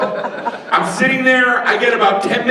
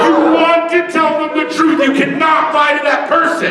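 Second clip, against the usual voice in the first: emphatic shout; 5 semitones higher than usual. Acted. Insisting on telling the truth.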